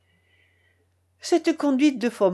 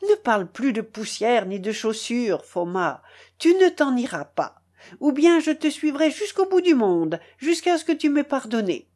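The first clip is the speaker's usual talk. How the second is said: raised, pleading insistence; crying out; 3 semitones higher than usual. Acted. Uncle begging Foma not to leave, crying out. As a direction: plead urgently, voice climbing. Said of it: "criait-il".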